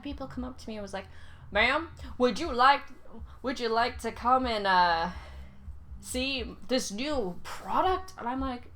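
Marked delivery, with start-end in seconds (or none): 1.5-8.1 louder, eager sales pitch; pushy salesperson. Retold or imitated. Salesperson calling her ma'am, loud and eager pitch. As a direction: hawk it like a mall kiosk seller.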